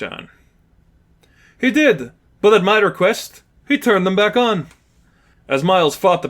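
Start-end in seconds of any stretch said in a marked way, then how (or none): 1.6-4.7 high, mocking villain voice; taunting villain. Lipov taunting Miles about the shockers, mocking villain voice. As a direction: twist the knife.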